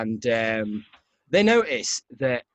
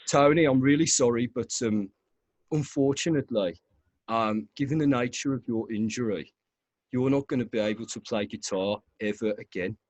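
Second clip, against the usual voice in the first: Brummie doctor; 2 semitones lower than usual. Retold or imitated. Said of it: "he sounds a lot like Tony".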